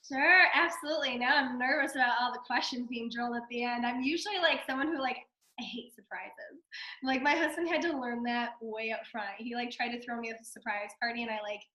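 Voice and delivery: raspy, hoarse from a cold. Real, not acted. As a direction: speak through a cold, hoarse. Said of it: "normally I don't sound like a smoker. I'm just getting over a cold".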